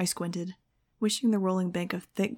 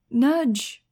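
loud, higher happy shriek; shrieked name; 5 semitones higher, 8 dB louder than usual. A narrator's reading. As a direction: call out her name across the sky. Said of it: "I shrieked".

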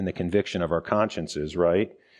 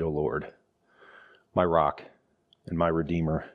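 scripture reading; 3 semitones lower than usual. Acted. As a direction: pray the verses as the sinner. Reads the psalm aloud.

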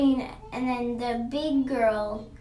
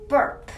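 mock burp; 2 semitones higher, 6 dB louder than usual. Acting out a burp.

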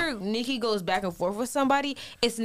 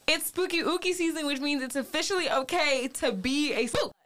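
high, sing-song spooky voice; spooky announcer voice; 6 semitones higher than usual. Pretend.

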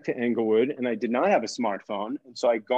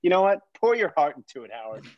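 needling; faster than usual. Retold or imitated. Daughter arguing with her dad, needling him. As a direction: throw the book title back to needle him. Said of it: "wants to get under his skin".

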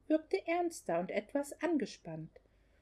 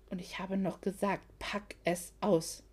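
hissed; 4 semitones lower, 4 dB quieter than usual. Acted. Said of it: "zischte Logan".

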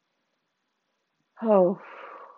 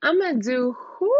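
stunned disbelief; 5 semitones higher than usual. Real, not acted. Stunned by Jesus' promise.

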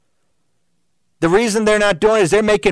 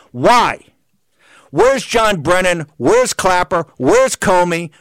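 real heated tirade, hammering each question; screaming; 2 semitones higher than usual. Real, not acted. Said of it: "I apologize for screaming in your ear".

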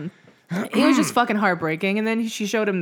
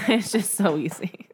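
breathy giggle through the words; laughing whisper. Real, not acted.

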